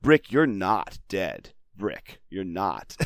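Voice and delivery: plaintive. Retold or imitated. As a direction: imitate patient explaining, winding down word by word. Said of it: "plaintively trying to explain".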